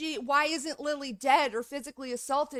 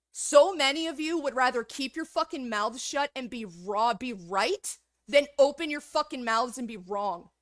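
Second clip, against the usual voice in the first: yelling at viewers; 3 dB louder than usual. Real, not acted. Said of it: "what I just yelled at you".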